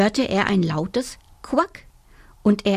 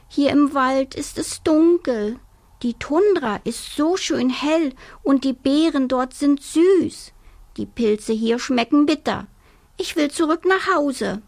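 complaining cub; 6 semitones higher than usual. Acted. Homesick little bear complains to his mother, whining high. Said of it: "klagte der kleine Bär".

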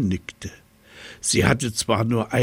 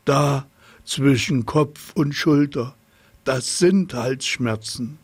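insistent hippo; 5 semitones higher than usual. A narrator's reading. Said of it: "schnaubte das Nilpferd".

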